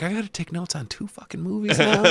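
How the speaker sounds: high-pitched, laughing complaint; amused, put-upon protest; mock exasperation. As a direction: whine in playful annoyance. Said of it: "I was a little bit pissed".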